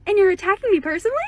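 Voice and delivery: customer-service phone greeting voice; call center voice. Shown as a demonstration. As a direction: put on your call center agent voice. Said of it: "I'm gonna do my call center voice".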